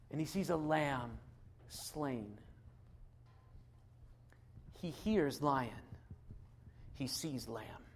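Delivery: awed quiet over the lamb; hushed awe. Acted. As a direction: let it drop to a hush. Contrast lion with slain lamb.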